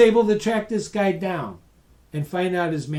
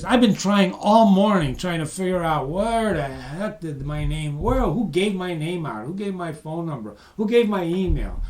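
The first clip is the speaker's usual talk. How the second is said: grateful caller. Retold or imitated. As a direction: play the calmed-down man, thankful and chatty. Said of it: "he goes like this".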